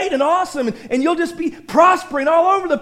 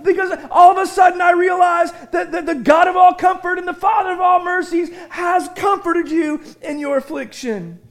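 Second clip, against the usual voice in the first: excited quote; 4 semitones higher than usual. Retold or imitated. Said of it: "he says".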